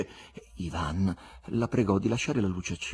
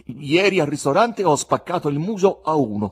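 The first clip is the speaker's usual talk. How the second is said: louder, blunt and manly; a bold, louder confession, said with pride; 6 semitones higher, 7 dB louder than usual. A narrator's reading. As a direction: own up to it like a man. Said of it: "confessò virilmente".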